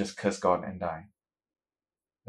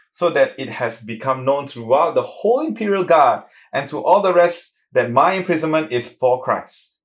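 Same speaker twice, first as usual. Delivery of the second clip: joyful Paul; 3 semitones higher, 5 dB louder than usual. Retold or imitated. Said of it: "this is the way he talks".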